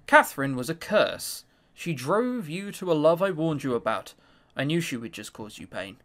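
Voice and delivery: a hint of a cold, clinging mother; lightly voiced controlling mother, low and soft; possessive mother. Mother voice again.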